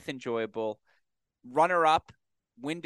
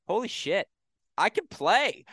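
retold amazed outburst, rising higher; amazed relief; 7 semitones higher than usual. Player realizing he can play after injury, amazed. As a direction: act out a player's happy surprise.

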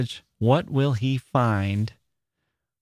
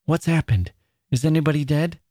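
alarmed; 5 semitones higher, faster than usual. Acted. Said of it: "she looked alarmed".

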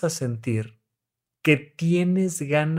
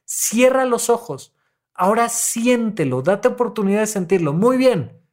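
urging therapist; 5 semitones higher than usual. Retold or imitated. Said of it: "y les digo".

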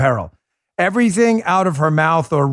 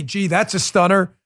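ordinary talk

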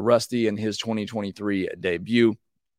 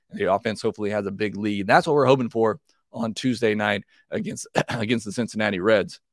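hoarse voice giving out; tired, hoarse voice from allergies. Real, not acted. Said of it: "as my voice is giving out here".

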